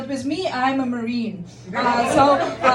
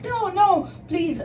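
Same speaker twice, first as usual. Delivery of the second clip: raised-pitch anxious refusal; alarmed pleading; 5 semitones higher, slower than usual. Retold or imitated. Woman refuses a stranger's drive to Moscow, pleading.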